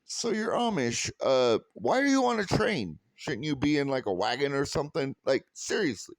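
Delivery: a cheeky ribbing question tossed at strangers; joking jab at an Amish couple on a train; teasing. Retold or imitated. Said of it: "And I was like".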